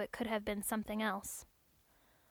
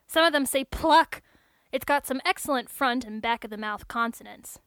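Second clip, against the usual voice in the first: lightly voiced tech, louder and lively; chatty technician; 7 dB louder than usual. Technician explaining test words to android, lively.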